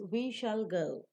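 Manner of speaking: slow, "go" drawn out and falling. Shown as a demonstration. Teacher reads the second tone group, falling on "go". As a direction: stretch "go" and bring it down. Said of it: "that will receive a falling tone".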